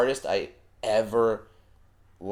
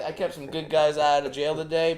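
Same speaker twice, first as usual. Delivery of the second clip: tired dad voice; 6 semitones higher than usual. Retold or imitated. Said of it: "I had a long day at work".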